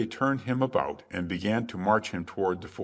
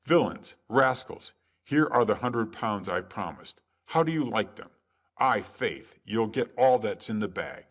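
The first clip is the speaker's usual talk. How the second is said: raised, mocking cry of triumph; 2 semitones higher than usual. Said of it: "and crying".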